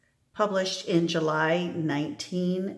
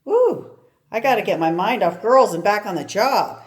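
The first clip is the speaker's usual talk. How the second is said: excited whoop; 3 semitones higher, 5 dB louder than usual. Acted. Archie exclaims about girls.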